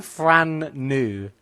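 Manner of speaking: BRAND NEW misheard as "Fran new", stretched out; misheard pronunciation. Retold or imitated. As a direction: say "Fran new" slowly, querying it. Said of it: "Sorry, did you say".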